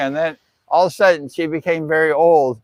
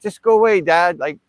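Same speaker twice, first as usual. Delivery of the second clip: mild annoyed brush-off; 3 semitones higher, 3 dB louder than usual. Retold or imitated. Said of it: "very upset".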